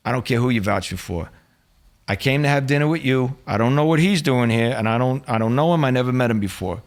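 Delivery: insistent mobster protest; gangster act. Retold or imitated. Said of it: "from my mannerisms and the way I was acting".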